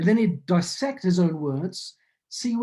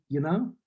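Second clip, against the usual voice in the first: "You know" with a rising end; "You know" said as a Kiwi uptalk tag; Kiwi upturn. Shown as a demonstration. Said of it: "Kiwis go up at the end of a sentence".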